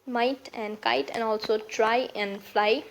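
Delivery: measured weight on "might and kite", "try and fly"; slow demo leaning on each rhyming word; stressed rhyming vowels. Shown as a demonstration. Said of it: "we put stress while pronouncing".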